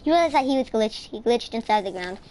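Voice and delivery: livelier, lifted storytelling voice; playful story narration. Pretend. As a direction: tell the mishap like a made-up tale. Tells a made-up story over play.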